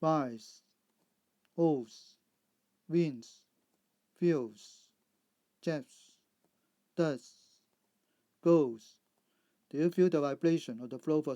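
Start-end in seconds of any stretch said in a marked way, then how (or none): 0.0-9.0 careful model reading with voiced final S; Z endings. Shown as a demonstration. Teacher modelling plurals after voiced sounds, Z endings. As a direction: list words one by one, each closing on a buzzed "z". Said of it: "Z sound".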